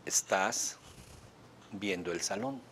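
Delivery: slow, paused echo of the client; matched slow pace. Shown as a demonstration. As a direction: mirror the slow pace, pausing after "Estás". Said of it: "Hay que repetir la velocidad con lo que la hizo".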